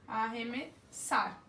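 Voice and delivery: Arremessar drawn out to show the double R as one sound; slow teacher demo. Shown as a demonstration. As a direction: stretch Arremessar slowly for the class. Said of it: "Duas letras, um fonema".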